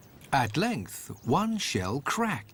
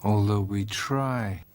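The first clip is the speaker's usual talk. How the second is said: poetic narration; 2 semitones lower than usual. A narrator's reading. Storyteller musing on dreams, gentle reflective read.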